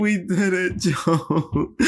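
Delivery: lightly voiced Kamala to Joe; Kamala Harris impression. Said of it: "Joe Biden and Kamala Harris".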